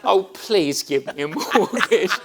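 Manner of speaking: begging. Retold or imitated. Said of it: "I said".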